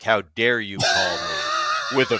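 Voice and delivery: loud, high outraged demand; mock outrage at the lowball offer; young player outraged at a fifth round offer, shouting; young indignant self. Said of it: "young me was like".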